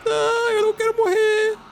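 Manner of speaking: high terrified cry; terrified shriek. Real, not acted. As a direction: shriek in real fear. About to die in game.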